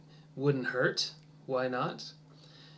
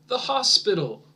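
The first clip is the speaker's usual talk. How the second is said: "the" stressed in "The hospital"; 5 semitones higher, 5 dB louder than usual. Shown as a demonstration. Teacher highlighting the article, louder. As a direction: lean on "the" before hospital. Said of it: "That article is important".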